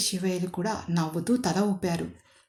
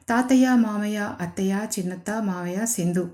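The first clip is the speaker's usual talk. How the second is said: playful greeting. Acted. Mahesh playfully greeting the whole family at once. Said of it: "అని తమాషాగా చెప్పాడు".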